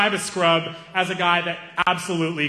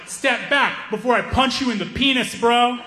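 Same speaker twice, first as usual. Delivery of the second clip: awkward threat; 8 semitones higher than usual. Retold or imitated. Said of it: "hadn't workshopped any of his insults".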